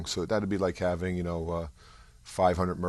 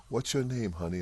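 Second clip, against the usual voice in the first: put-on southern accent; 4 semitones higher, 3 dB quieter than usual. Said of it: "she had this lovely southern accent".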